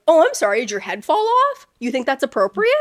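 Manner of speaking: sarcastic. Retold or imitated. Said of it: "you're like".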